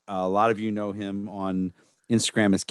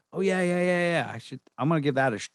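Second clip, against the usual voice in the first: much higher, quick eager yeahs; mock his own keen reaction; eager agreement; 9 semitones higher, faster than usual. Host imitating himself hearing a tip on a podcast, much higher and quick.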